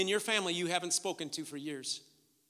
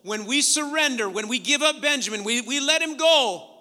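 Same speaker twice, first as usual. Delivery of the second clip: louder, raised preaching voice; forceful preaching; 6 semitones higher, 9 dB louder than usual. Real, not acted. Preacher teaching surrender to the congregation, forceful preaching. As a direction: drive the point home to the congregation.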